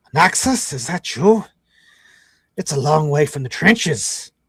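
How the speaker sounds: grunty, growling goblin voice. Storyteller voices a dwarf greeting an old comrade from the trenches, in a goblin voice. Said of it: "start sounding like a goblin?".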